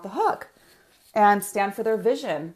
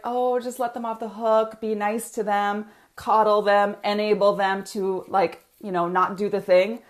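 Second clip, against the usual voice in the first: lightly voiced coaxing inner voice; the tempting little voice, lightly done. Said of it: "This is my little voice".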